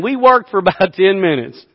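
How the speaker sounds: laughter breaking into the telling; real laughing. Real, not acted. Preacher confesses teenage foolishness to congregation, laughing as he talks. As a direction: try to keep talking through a laugh. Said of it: "I'm sorry I'm laughing".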